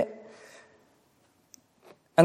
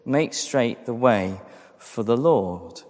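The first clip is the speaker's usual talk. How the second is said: herald's cry; 4 semitones lower, slower than usual. Acted. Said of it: "I am the voice of one calling".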